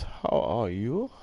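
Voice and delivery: slow, lightly put-on voice; a hint of a character asking, drawn out; mild mock greeting, slow; voicing a viewer. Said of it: "says Bobby boys".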